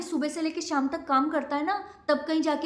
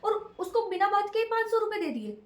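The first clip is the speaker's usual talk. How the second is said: higher-pitched aggrieved complaint to mom; upset outburst; 4 semitones higher, 3 dB louder than usual. Acted. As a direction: protest hotly that the maid got money first. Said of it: "इतना भड़क क्यों रही हो?". (नाराज़ बेटी, ऊँची आवाज़ में शिकायत)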